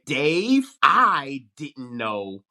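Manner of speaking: I drawn out high and loud; stress on I. Shown as a demonstration. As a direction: lean hard on "I", stretched slow. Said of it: "say the same sentence three ways".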